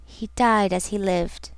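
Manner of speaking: low and hushed, almost under her breath; the Intended to Marlow, said very low and quiet. A narrator's reading. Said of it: "She said suddenly, very low".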